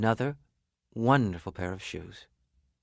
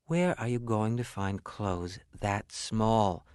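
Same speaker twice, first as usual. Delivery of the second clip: skeptical wife; 4 dB quieter, slower than usual. Acted. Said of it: "said his wife".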